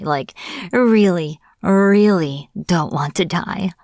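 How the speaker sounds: "really" drawn out, stretched for emphasis; emphatic pleading. Acted. Captive witch begging not to die, emphatic pleading. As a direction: lean hard and slow on each "really".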